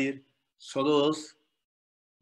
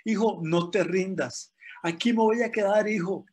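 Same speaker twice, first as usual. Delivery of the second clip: mother calling out; 4 semitones higher than usual. Retold or imitated. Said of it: "ella lo animaba con el megáfono".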